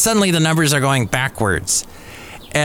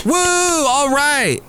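high, drawn-out whoop; slow, high crowd whoop; mock cheering; 13 semitones higher, much slower than usual. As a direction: stretch the cheer out slowly. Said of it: "they're cheering".

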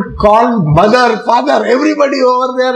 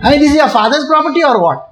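fast, raised scolding of the women; a hint of the angry saint shouting at thieves; mock scolding; 4 semitones higher, much faster than usual. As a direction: rattle off an indignant rebuke. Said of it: "gives enough galis to them and says".

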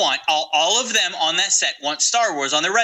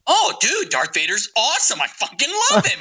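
higher excited fanboy gush; a hint of a gushing, higher fan; mock eager fan; 5 semitones higher than usual. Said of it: "You, you like Darth Vader?".

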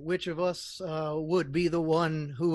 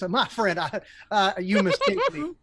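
gnome voice. Acted. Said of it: "I keep falling into your orc voice".

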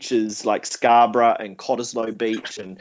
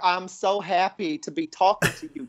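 gushing guest; 5 semitones higher than usual. Acted. Mock gushing guest in put-on voice.

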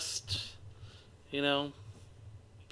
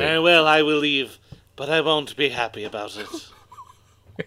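put-on theatrical voice, slowing and dropping low; slow, stately mock-offended exit line; Dudley Moore; 3 semitones lower than usual. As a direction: sulk grandly like a dismissed actor. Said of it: "Was he Dudley Moore just then?".

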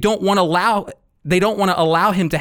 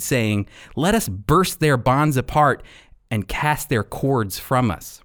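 scripture reading. Acted. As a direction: read the verses with weight. Reads Psalm two aloud.

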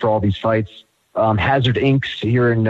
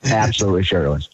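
a light McConaughey-style promo; Matthew McConaughey. Acted. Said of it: "this is Matthew McConaughey".

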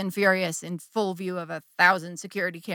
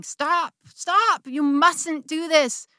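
higher, shrill-toned scolding conscience; angry little voice; 8 semitones higher, 5 dB louder than usual. Retold or imitated. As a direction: scold herself like a panicked inner voice. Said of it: "angry little voice ... was screaming".

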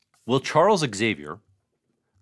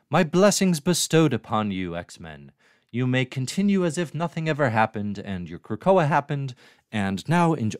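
higher-pitched, put-on character accent; Moira accent; 3 semitones higher than usual. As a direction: play a grand blessing in a put-on accent. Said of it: "why am I doing that accent?".

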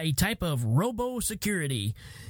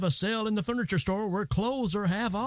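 store PA voice; supermarket announcement. Acted. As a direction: announce it over the store speakers.

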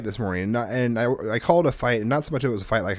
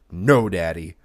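deep "No, Daddy"; 5 semitones lower, 4 dB louder, slower than usual. Retold or imitated. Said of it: "the tone of his voice was very deep".

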